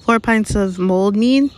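a hint of a cheerful barmaid taking orders, slowly; barmaid Rosmerta. A narrator's reading.

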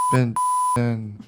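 censored with a bleep. Acted. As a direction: swear covered by a bleep tone. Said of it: "Are you gonna bleep that out?".

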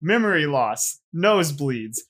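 ad disclaimer read aloud. Pretend. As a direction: recite the small print. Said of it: "I have to read this disclaimer perfectly word for word".

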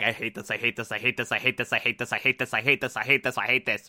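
a low, soft, monotone mutter of "I hate this"; low, quiet grumble. Retold or imitated. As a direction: mutter it under your breath, low and fed up. Shaw grumbling at makeup store job.

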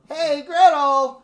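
high, slow, loud witch yell; witch shout. Acted. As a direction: screech it out like a witch.

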